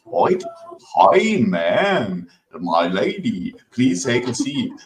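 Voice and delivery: hammed-up posh English accent, slow and genteel; Oxford English accent. Mocking British manners to the stream, bad posh English accent. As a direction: do a bad Oxford English host offering tea. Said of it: "But Oxford English".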